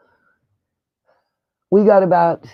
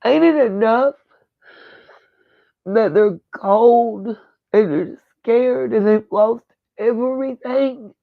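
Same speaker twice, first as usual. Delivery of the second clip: higher, rising, voice near breaking with anger; emotional angry outburst; 4 semitones higher than usual. Real, not acted. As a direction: vent the frustration, close to tears. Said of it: "to get emotional".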